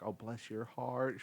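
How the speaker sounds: slow, drawn-out Southern belle imitation of Leanne Morgan; light imitation of a sweet Southern accent. Comic imitating a Southern headliner's catchphrase, slow and Southern. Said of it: "she has a super accent".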